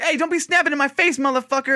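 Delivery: high-pitched imitated confrontation; mock angry retort. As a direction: snap back as the man in the retold quarrel. Retold quarrel in restaurant.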